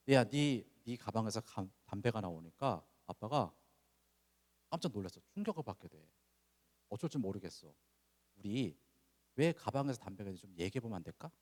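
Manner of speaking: gentle talk. Retold or imitated. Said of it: "그런 게 아니라".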